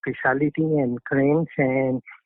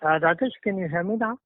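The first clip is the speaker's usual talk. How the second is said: raised voice to be heard; speaking up; 3 semitones higher, 3 dB quieter than usual. Real, not acted. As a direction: push it out for a bad line. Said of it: "increase the volume on your phone".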